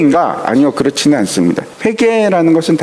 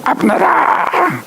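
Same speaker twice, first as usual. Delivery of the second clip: high, slow, drawn-out call across a valley; high drawn-out cry to Abner; calling out across the hills; 12 semitones higher, much slower than usual. Acted. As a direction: stretch the name out as if to a far mountaintop. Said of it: "소리를 지릅니다".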